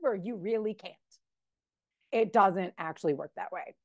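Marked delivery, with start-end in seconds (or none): 0.0-0.1 mock contented voice. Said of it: "Even if you're like".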